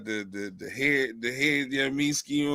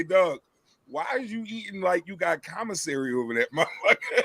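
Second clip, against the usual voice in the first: teasing through laughter; 4 semitones higher than usual. Retold or imitated. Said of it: "I was really about to say".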